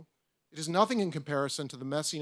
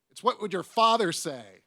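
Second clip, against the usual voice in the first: laughing; 4 semitones higher, 6 dB louder than usual. Real, not acted. Laughs at own joke.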